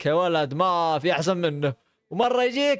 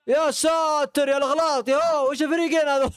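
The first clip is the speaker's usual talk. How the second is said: higher, slowed exasperated cry; higher, disbelieving complaint; 8 semitones higher than usual. Real, not acted. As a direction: despair at both teams. Exasperated at errors.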